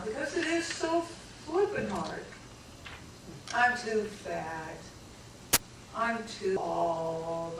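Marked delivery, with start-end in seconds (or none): 3.5-4.8 mocking self-talk. Shown as a demonstration. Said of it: "self-critical voices demo". 6.0-7.6 slow self-pity. Shown as a demonstration. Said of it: "repeated self-talk".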